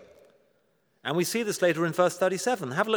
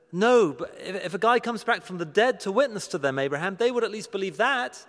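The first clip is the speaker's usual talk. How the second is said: insistent, mildly acted objection; pleading protest; 3 semitones higher than usual. Rich man in hell argues with Abraham, pleading. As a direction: argue back, pressing the point.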